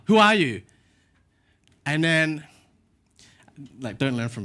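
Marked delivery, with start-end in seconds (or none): 0.0-0.6 high, loud retort; indignant challenge. Retold or imitated. Preacher re-enacting his reply to the stranger, high indignant challenge. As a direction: fire the question back at the scolder.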